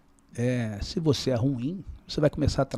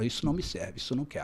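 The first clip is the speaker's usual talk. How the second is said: quietly assertive; 8 dB quieter, faster than usual. Acted. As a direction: state the boundary without shouting. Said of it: "Você só precisa ser assertivo".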